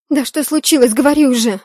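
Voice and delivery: loud, high demanding cry; desperate shout. Acted. Heroine demands Jay speak, desperate shout. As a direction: yell at him to just say it. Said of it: "закричала я".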